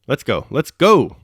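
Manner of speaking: loud, drawn-out rallying call; urgent cry. A narrator's reading. Anatoly urging his companions to leave, loud cry. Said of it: "cried Anatoly".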